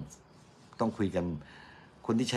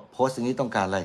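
mock outraged complaint; 4 semitones higher, 4 dB louder than usual. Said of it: "ออกมาโวยวายเลย".

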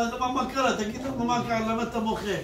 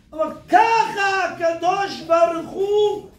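preacher proclaiming how charity is meant to be given; slow emphatic declaration; 5 semitones higher, slower than usual. Acted. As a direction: spell it out for everyone. Preacher climaxing on the point.

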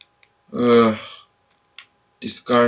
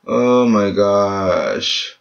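very slow, stretched oh my gosh; drawn-out despair; 4 semitones lower, much slower than usual. Real, not acted. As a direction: groan it out in disbelief. Frustrated at mistake.

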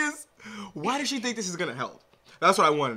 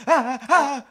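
mock sobbing; 9 semitones higher, 7 dB louder than usual. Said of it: "start shouting".

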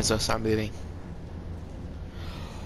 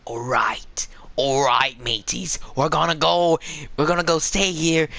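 playful Aussie mate talk; rally the mateys in mock Australian; Australian accent. Gamer telling mateys the plan, mock Australian accent. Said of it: "I wanna just speak Australian".

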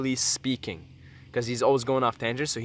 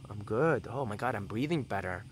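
relieved and calm. Pretend. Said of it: "And then you'll feel".

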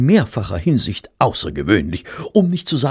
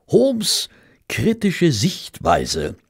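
slow, breathy whisper of a confiding narrator; whispered aside; 9 semitones higher, much slower than usual. A narrator's reading. Narrator confiding to his audience, whispering. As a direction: lean in and whisper it, slowly.

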